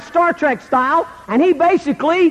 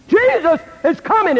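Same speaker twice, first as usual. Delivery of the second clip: raised-pitch pulpit proclamation; preaching pastor; 5 semitones higher than usual. Retold or imitated. Pastor preaching the second coming, imitated proclamation. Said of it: "The pastor preached on the second coming".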